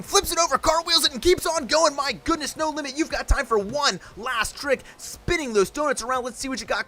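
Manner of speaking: energetic sports commentary, rolling fast; live play-by-play. Acted. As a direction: call the run as it happens, building hype. Live monster truck play-by-play.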